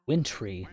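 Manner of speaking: wintry as WIN-tree, no middle vowel; wintry with the t running into the r; wintry in two syllables. Shown as a demonstration. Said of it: "but wintry".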